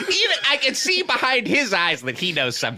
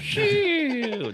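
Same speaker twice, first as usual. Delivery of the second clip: fake snore; 10 semitones higher than usual. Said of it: "that's a big fake snore".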